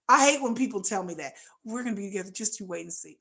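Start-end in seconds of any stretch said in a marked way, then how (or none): 1.6-3.2 mildly smug, softer promise; imitating his smugness. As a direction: echo his self-satisfied certainty. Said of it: "You're always so smug".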